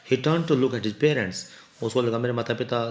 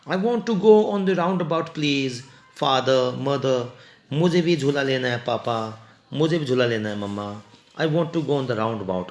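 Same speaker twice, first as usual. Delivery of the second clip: put-on child begging parents for ride, crying out; child's crying plea; slower than usual. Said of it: "उसने चीख के बोला".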